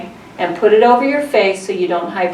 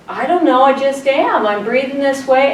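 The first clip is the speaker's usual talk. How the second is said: flustered reply; 5 semitones higher than usual. Retold or imitated. Flustered reply to the nurse, retold.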